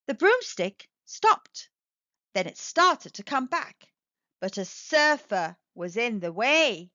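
lively storybook reading voice; a picture book read aloud; story narration. Acted. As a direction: read it to children, bright and animated.

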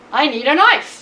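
mouse calling out. Acted. Mouse calls out for a knife.

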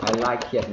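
"I like it" with the K of "like" fully released; wrong-way demo with a heavy K in "like"; full K sound. Shown as a demonstration. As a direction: hit the K in "like" hard before "it". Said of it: "không phải là".

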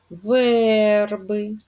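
верби, with a clear stress on the first syllable. Shown as a demonstration. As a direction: land on the е in верби. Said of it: "Наголос впав на Е". (наголос на першому складі: ВЕРби)

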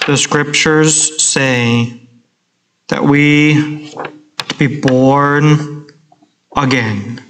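slow, droning, lifeless sermon voice; boring preaching. Shown as a demonstration. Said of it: "I just preached like this".

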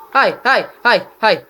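repeated loud high shouts; angry yelling. Real, not acted. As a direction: call out hard, again and again. Gamer raging at opponent.

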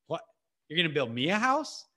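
mildly incredulous, rising at the end; incredulous question. Acted. God answers David's offer, mildly incredulous. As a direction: query it as if it were absurd.

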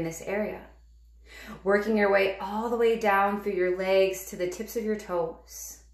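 calm, measured meditation guide with long pauses; guided meditation. Real, not acted.

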